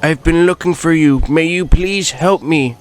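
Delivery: brash rally-speech Trump voice, boastful and rambling; Donald Trump impression. Trump touring Hyrule, boasting to the viewers in his voice. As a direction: play Trump bragging about Hyrule.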